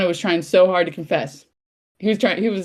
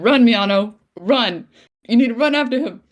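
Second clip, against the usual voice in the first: higher, urgent urging; urgent cheering on; 4 semitones higher, 3 dB louder than usual. Retold or imitated. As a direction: spur the character on with raised pitch. Retells urging on a character.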